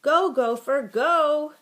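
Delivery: high, very loud cheer; girls' yell. A narrator's reading. Girls cheering for the gopher to escape, yelling. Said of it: "girls' voices began to yell".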